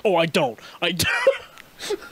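hammed-up flustered backpedal; mock panicked denial. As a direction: play up the panic, pitch shooting up. Caught out, denying he speaks Japanese.

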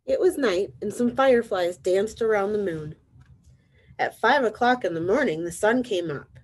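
lively, measured storybook narration; reading to children. A narrator's reading. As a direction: read it out clearly to little listeners. Reads picture book to children.

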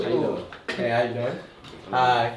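soft put-on girl voice; lightly voiced young woman. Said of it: "I switched my voice to a girl voice".

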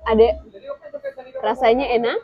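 talking while munching crackers; crunching chips. Real, not acted. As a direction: mouth full of crunchy crackers. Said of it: "sambil makan kerupuk".

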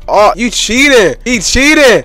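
high, slow indignant cry; real disbelief at cheater; outraged accusation. Real, not acted. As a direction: protest the cheating.

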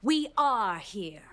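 deep, slow superhero declaration; bold heroic voice. Acted. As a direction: announce it like a superhero. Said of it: "She's using her hero voice".

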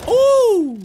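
high, loud impressed ooh; excited ooh. Real, not acted. Cheering a clip.

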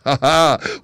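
a loud, triumphant burst of laughter; detective's gleeful laugh at the footprints; delighted laugh. Acted. Holmes delighted by a clue.

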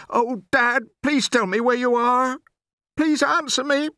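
very high, loud desperate plea; trembly pleading. A narrator's reading. Lost boy begging his father to answer, trembly pleading. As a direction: plead as you call into the dark. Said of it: "my voice began to go all trembly".

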